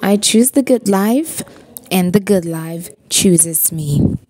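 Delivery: rises on the first half, falls and slows on the second; spoken affirmation. Shown as a demonstration. Speaker leads viewers in an affirmation, slow mantra. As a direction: recite it slowly like a mantra. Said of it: "say this after me".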